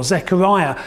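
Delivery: ordinary talk, nothing marked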